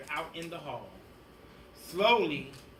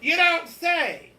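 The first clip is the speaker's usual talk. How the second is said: much higher, louder slow drawl; mock-innocent teacher; 10 semitones higher, 9 dB louder, slower than usual. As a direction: fake surprise, slowly.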